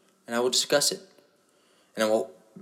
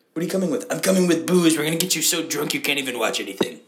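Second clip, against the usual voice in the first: mock sponsor; 6 semitones higher, 4 dB louder than usual. Sponsor bringing booze.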